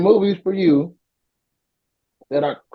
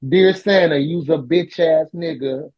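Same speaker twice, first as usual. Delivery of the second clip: heavy breathing phone whisper; slower than usual. Pretend. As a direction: breathe into it like a prank phone stalker. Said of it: "Santa Stalker voice".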